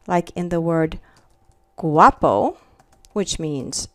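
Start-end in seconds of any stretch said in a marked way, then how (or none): 1.8-2.6 guapo opening on a hard G, gwah-poh. Shown as a demonstration. Teacher giving students an example word, hard G. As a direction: say guapo with G as in gap. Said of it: "It has a hard sound".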